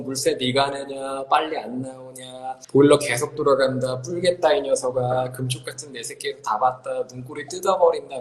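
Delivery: run-on monotone scolding, slightly low; nagging parent. Acted. Mother grumbling at a teen's long shower, nagging. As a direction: rattle off complaints without a breath.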